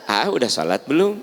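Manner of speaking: mother asking gently; gently asked. Retold or imitated. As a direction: ask the child kindly. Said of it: "nanyanya dengan lembut".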